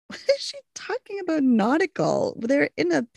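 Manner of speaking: retelling her own baffled reaction; mock puzzlement. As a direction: play up the confusion. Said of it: "But this time I was like".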